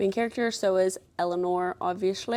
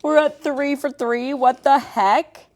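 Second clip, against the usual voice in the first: amazed; 6 semitones higher, 6 dB louder, slower than usual. Real, not acted. Third matching book cover.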